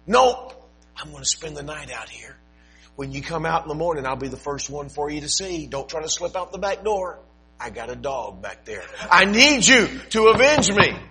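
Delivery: high, teasing, determined voice; stubborn widow. Acted. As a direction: dig in and refuse to leave. Widow camps on porch.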